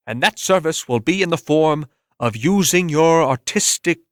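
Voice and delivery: judge's sentence. Acted. Judge sentencing Bert in court, formal and measured. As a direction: pronounce the ruling from the bench.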